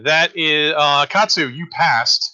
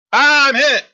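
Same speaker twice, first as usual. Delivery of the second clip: pained cry; 11 semitones higher, 5 dB louder than usual. Acted. GM voices hit enemy crying out.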